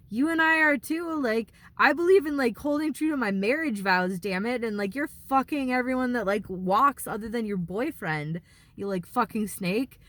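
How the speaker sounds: a touch of heated anger; telling her off with some heat; lightly voiced rant at a two-faced friend; mild retold rage. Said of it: "That was a bit of rage coming out".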